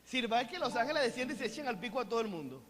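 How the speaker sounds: fast, lightly voiced Hugo Díaz impression; Hugo Díaz version. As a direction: rattle it off as Hugo Díaz would. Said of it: "en versión Hugo Díaz". (imitación ligera y rápida de Hugo Díaz)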